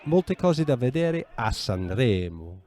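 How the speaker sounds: molte cose da vedere a Sanremo said slowly and clearly; slow repeat. Shown as a demonstration. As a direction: repeat it slowly so your friend can follow. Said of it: "repeating the phrase for learner".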